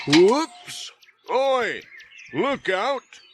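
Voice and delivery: startled warning shout from up a ladder. A narrator's reading. Ted on ladder warns Pat, high shout. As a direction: call out high in alarm. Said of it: "shouted Ted Glenn".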